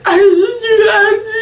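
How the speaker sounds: loud high wail, words lost in crying; reliving a sobbing outburst, high and loud; sobbing, unable to make words. Retold or imitated. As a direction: bawl it out incoherently. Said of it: "could not make words".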